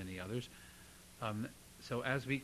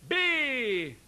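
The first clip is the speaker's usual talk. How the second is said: high, loud held syllable; calling voice; 9 semitones higher, 7 dB louder than usual. Shown as a demonstration. Teacher demonstrating belted vowels, calling out. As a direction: belt it like a hail. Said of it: "it's in your calling voice".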